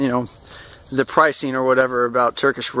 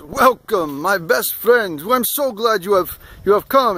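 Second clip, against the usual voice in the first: lightly voiced effusive host, higher pitch; Turkish man's welcome; 5 semitones higher than usual. Rug seller greeting his new guests, lightly voiced effusive welcome. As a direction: lightly imitate an overjoyed shop owner greeting guests. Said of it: "bearded Turkish man who goes".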